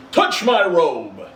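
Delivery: slow, commanding spirit; slow grand command; ghost's command. Acted. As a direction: order him to hold on.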